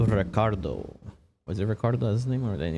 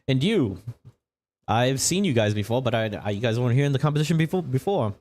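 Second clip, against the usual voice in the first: TV interviewer; 4 semitones higher than usual. Acted.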